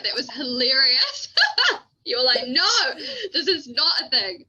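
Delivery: laughing through the quote. Real, not acted. Laughing, recalling the Monchi fight with her friend. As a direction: chuckle while retelling.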